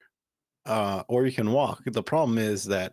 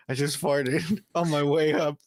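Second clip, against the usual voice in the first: laughing confession; 4 semitones higher than usual. Retold or imitated. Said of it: "I was like".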